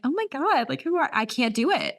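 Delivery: high-pitched giddy swooning. Retold or imitated. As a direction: imitate yourself going all giddy. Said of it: "I get all giddy".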